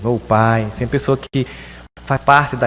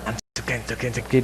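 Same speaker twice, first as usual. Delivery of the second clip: muttered mind rambling; 8 dB quieter, much faster than usual. Pretend.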